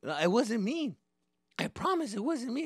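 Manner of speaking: put-on high-pitched kid protesting innocence; pleading denial. Accused kid denies it.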